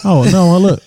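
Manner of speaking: ordinary delivery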